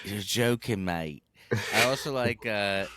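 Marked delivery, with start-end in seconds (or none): 0.0-1.2 put-on British accent, falling low; mock British accent. Host copying co-host's favorite line, mock British accent. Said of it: "when British people say is like".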